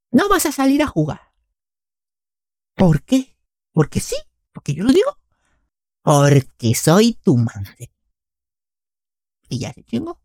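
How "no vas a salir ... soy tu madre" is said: mom voice. Retold or imitated. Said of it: "decía".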